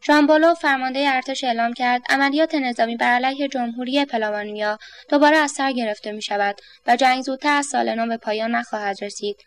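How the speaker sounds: detached, emotionless newsreader delivery; cool news read. A narrator's reading. The newsreader to Brucci, coolly reading the bulletin. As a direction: read the war bulletin like nothing matters.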